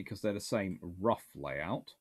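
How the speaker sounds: ordinary talk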